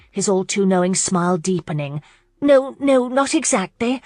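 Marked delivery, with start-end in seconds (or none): 2.4-4.0 high, flustered denial; stammering. A narrator's reading. Lauren is caught out about her cousin, stammering. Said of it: "Lauren stammered".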